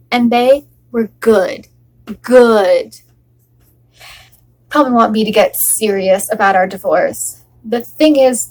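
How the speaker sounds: wife pleading with her husband, bitter and teasing; a wife joking through heartbreak to keep him; a wife refusing to let her husband Charles go, wry and hurt; acted monologue.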